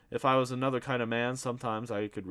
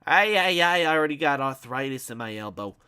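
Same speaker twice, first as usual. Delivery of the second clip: put-on old lady lament; 6 semitones higher, 11 dB louder than usual.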